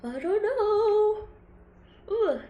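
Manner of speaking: slow, high, bewildered; drawn-out and high. Real, not acted. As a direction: stretch each word out, baffled. Stretched bewildered remark.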